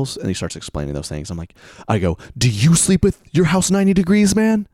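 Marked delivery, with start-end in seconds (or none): 2.4-4.7 loud, high, indignant challenge; retold stern outburst; stern demand. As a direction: confront him as if he is being absurd. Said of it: "kinda stern".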